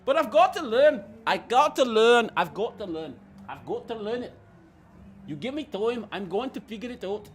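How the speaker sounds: put-on practising a Scottish accent. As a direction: try out a Scottish lilt, repeating it. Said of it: "learn the Scottish accent".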